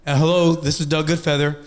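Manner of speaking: lightly put-on formal phone voice; a hint of a businesslike caller; professional voice. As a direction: sound polished on the phone. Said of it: "use my professional voice".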